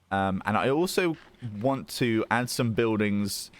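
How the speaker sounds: talking while chewing food; mouth full. Real, not acted. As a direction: speak through a mouthful. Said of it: "Let me finish eating".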